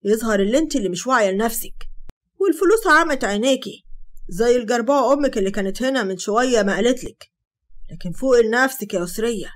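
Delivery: loud, contemptuous berating; angry berating. Acted. Hatem berating Sara after the slap, loud. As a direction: tear her down.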